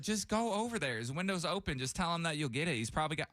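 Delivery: high-pitched mock wife urging; imitating wife. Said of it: "And my wife was like".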